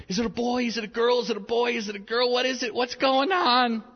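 high, eager rapid questions; eager wife. Retold or imitated. Wife asking about the newborn's sex, high and eager. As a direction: press for an answer, bursting with suspense. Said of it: "I remember her saying".

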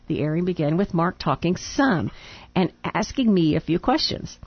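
reading a letter aloud. Real, not acted.

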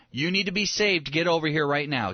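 hammed-up insistence; mock pushy command. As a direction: imitate bossing someone to come at once. Acting a demanding order, negated.

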